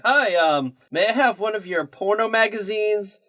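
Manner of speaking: retold awkward attempt at acting natural; fake casual. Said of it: "act all natural, act all casual".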